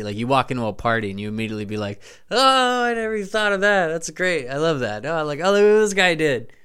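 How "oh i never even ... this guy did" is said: high, delighted gasps of surprise; amazed partygoer. Retold or imitated. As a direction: gush over a clever costume. Acting partygoer amazed by costume.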